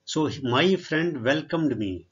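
reading the English sentence out word by word, very slowly; slow dictation reading. Shown as a demonstration. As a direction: spell it out slowly for the class. (ਬਹੁਤ ਹੌਲੀ ਹੌਲੀ ਪੜ੍ਹਾਉਣ ਵਾਲਾ ਲਹਿਜਾ)

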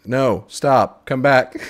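loud, laughing no stop; laughing plea. Real, not acted. Player laughs as his companion runs off, loud laughing shout. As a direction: call after her while cracking up.

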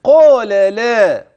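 قال لا chanted slowly, thick ق and thin ل; heavy qāf, light lām. Shown as a demonstration. Teacher demonstrating heavy ق and light ل in قال لا. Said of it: "واللام من لا ترقق كذلك".

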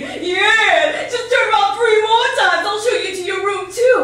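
mock her like a prankster clown; a second clown sneering at her; teasing clown. Mocking clown behind her.

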